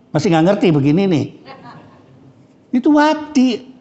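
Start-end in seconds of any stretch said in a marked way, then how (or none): 2.8-3.8 "Itu Wati" said high and slow, the way an Arab says it; Arab speaker saying a name. Shown as a demonstration. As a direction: drawl "Itu Wati" slowly, pitched up, Arab-style. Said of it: "Orang Arab mengatakan itu Wati".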